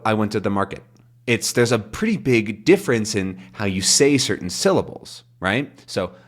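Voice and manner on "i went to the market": "I went to the market" with every syllable the same weight, no peaks; flat wrong stress. Shown as a demonstration. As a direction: say it evenly as the wrong version. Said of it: "It doesn't go".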